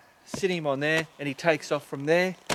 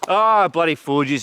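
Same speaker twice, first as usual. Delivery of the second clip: louder, slow annoyed groan of a curse; frustrated exclamation; 7 dB louder, slower than usual. Real, not acted. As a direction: let it out as a fed-up outburst. Realises they went wrong way.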